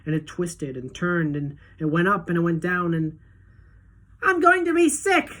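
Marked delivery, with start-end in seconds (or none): 4.2-5.3 very high, loud wail; queasy yell. A narrator's reading. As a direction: wail it, about to be sick. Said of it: "yelled Missus T V".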